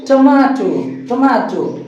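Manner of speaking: टमाटो with long "maa"; corrected pronunciation. Shown as a demonstration. Teacher drilling the new word for students, corrected. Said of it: "क्या बोलिएगा".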